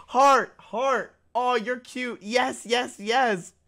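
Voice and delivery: high mock-fawning voice; put-on cooing praise; gushing fans. Mimics fans posting hearts.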